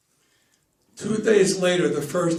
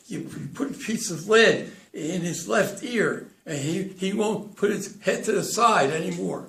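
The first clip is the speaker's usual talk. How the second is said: acted stutter; 2 semitones higher than usual. Stuttering Charlie offers his advice.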